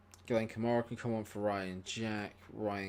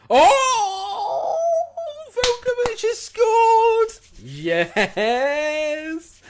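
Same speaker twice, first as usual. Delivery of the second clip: screaming with joy, much higher and louder; goal celebration; 13 dB louder, much slower than usual. Real, not acted. Streamer celebrating his team's goal, ecstatic screaming. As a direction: erupt in pure goal delight.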